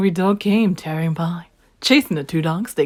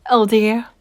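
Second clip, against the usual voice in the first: oh dear; 4 semitones higher, 7 dB louder than usual. Acted. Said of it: "she said".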